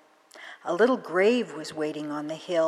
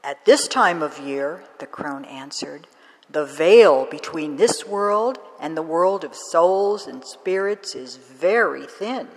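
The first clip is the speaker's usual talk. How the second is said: lightly voiced old woman, louder; mysterious old wise woman; a hint of a mystical crone; 6 dB louder than usual. Crone explaining the thin veil to the girl, lightly voiced mystical old woman.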